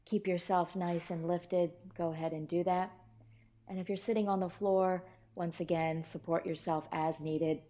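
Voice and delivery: calm, measured meditation instruction; steady meditation-teacher voice with pauses between phrases; guided meditation. Real, not acted. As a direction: guide listeners step by step into settling and relaxing.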